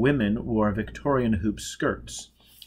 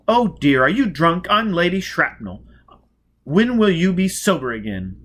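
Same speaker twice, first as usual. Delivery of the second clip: much higher and louder, flirtatious; gushing society lady; 8 semitones higher, 6 dB louder than usual. Acted. Lady Shrapnel teasing Four Mile, high and loud. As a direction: play the giddy grande dame.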